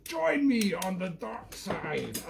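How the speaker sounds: slow, breathy whispered menace; Vader whisper. Pretend. Vader puppet tempts the viewer, slow menacing whisper. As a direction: whisper it like a Sith tempting you.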